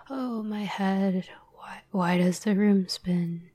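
slow, groaning start on a mildly tipsy line; lightly acted drunk. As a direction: play a slightly dizzy drunk, dragging the first words. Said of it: "comes in drunk".

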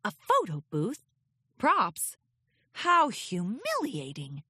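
regal, slow scornful thought; disdainful. Acted. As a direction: sniff at it like a proud princess. Luna's disdainful inner thought.

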